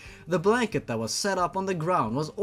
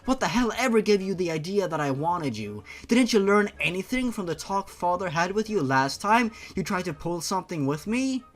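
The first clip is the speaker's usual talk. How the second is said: put-on higher, indignant young woman snapping back; annoyed Shayla; 5 semitones higher than usual. Shayla scolding Jeff for calling her sweet cheeks, higher and indignant. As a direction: push him away with a raised, fed-up voice.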